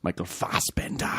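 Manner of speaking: low, hushed "Michael Fassbender"; hushed, dramatic name announcement; not loud enough. Shown as a demonstration. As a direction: say the name low and restrained, dropping the final r.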